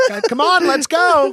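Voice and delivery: high, whiny mom hurrying him; nagging mom. Retold or imitated. Mom hurrying her son out of bed. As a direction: pitch it up and nag like a mom. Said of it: "She'll stand outside your door".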